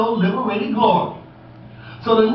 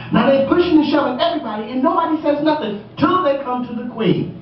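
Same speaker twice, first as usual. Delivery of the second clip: excited retelling; 5 semitones higher, faster than usual. Acted. Pushing scene retold.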